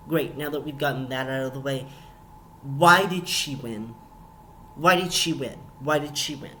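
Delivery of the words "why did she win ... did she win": exasperated question. Real, not acted. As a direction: stretch out the why in outrage. Outraged at the episode result.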